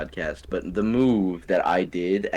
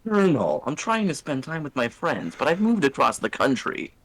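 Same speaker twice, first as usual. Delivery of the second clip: mock soldier's report; 5 semitones higher than usual. Acting out a mock radio bit.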